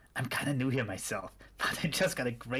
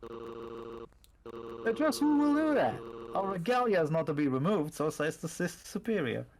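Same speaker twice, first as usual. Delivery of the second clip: shocked cult member, voice jumping up; indignant cultist protesting. Acted. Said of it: "you switch cultist voices".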